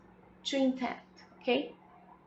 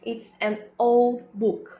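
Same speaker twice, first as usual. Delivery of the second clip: slow model sentence; much slower than usual. Shown as a demonstration. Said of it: "Então, um livro velho".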